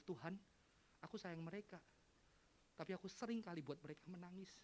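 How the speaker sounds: soft, private prayer; retold night prayer. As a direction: confide it quietly to God. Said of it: "saya doa malam itu".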